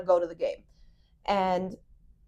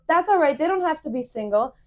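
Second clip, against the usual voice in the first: higher, louder breezy brush-off; higher, louder mock carefree date; imitating the date; 7 semitones higher, 4 dB louder than usual. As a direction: mimic his casual shrug it off. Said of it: "And he goes".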